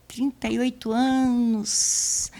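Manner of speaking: slow, drawn-out "trinta e oito anos" full of pity; pitying thought. Retold or imitated. She silently pities the unmarried man, saying it slowly. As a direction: drag out "trinta e oito anos" as if feeling sorry for him. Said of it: "eu pensei comigo: "Ô, coitado".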